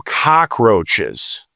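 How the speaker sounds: slow, drawn-out cockroaches with roaches leaned on; stress on roaches. Shown as a demonstration. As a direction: stretch out cockroaches and lean on roaches, not cock. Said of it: "I wanna stress the word roaches".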